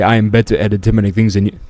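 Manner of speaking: put-on half-hearted British accent; attempted British accent. Host mimicking his British opponent, weak British accent. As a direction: try a British accent, not very convincingly. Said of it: "I'm gonna do this British accent".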